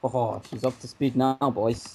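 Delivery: slow, gloating Scottish villain; evil Scotsman voice. Shown as a demonstration. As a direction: deliver it like a gleeful Scottish villain. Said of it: "the speaker's ultimate evil Scotsman mode".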